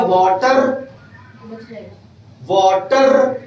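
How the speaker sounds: Kotwa Dham वाटर with a heavy final R; Kotwa Dham accent. Shown as a demonstration. Teacher jokes about the local accent, Kotwa Dham वाटर with heavy R. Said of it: "ये accent बन जाएगा".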